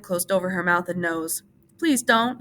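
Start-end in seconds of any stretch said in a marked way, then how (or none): 1.8-2.4 pleading, higher and louder; Lenny begs her, scared; begging. A narrator's reading. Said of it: "he begged".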